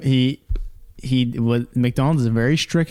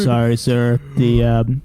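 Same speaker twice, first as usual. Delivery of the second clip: apologetic worker; 3 dB louder, slower than usual. Retold or imitated. Voicing McDonald's worker over mic.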